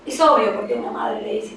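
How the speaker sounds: ordinary delivery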